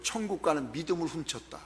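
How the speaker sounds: low, soft quoting of a theologian; hushed quotation. Retold or imitated. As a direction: quote it quietly, letting it sink in. Theologian's quote, first said quietly. (낮고 조용하게 인용하듯)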